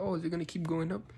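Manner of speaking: high-pitched worried question. Retold or imitated. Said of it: "like, worried".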